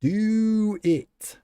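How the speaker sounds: loud high push; high urgent shout. Acted. Streamer urges chat to try donuts, loud. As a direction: yell it to egg them on.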